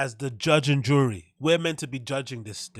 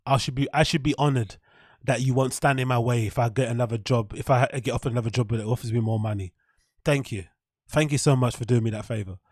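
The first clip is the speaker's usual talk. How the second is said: sarcastic thanks. Acted.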